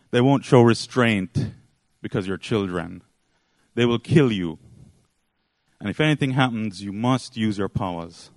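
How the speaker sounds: retold stern instruction with weighted pauses; acted grave warning. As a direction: warn the children in earnest. Mother warns children in retold scene.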